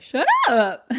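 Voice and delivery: high, loud mock yell; retold angry snap. Luke to Garrett laughing at him, mock angry yell. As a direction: act out an embarrassed boy's outburst. Acted boy snapping at teasing friend.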